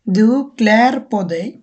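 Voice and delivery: jag sätter mig spoken very slowly, word by word; slow careful model sentence for learners; slow Swedish demo. Shown as a demonstration. Teacher modelling a Swedish sentence for students, very slow. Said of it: "আমি wash করতেছি".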